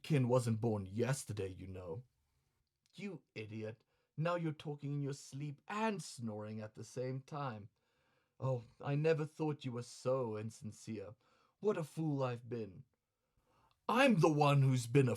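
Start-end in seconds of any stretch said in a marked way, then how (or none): 2.9-12.8 quiet, hurt courtesan reproach; soft woman's voice. Acted. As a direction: sulk softly at him. Osame sulking reproach.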